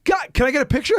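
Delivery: high-pitched eager ask; imitating a starstruck onlooker wanting a photo; excited request. Fireman excitedly asking for picture.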